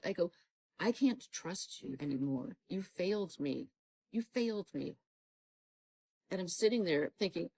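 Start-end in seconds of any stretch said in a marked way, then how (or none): 0.8-5.0 slow, wounded retold accusation; measured anger, reliving the hurt; angry reproach. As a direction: spell out the betrayal, dragging the words. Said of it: "I am so angry at you".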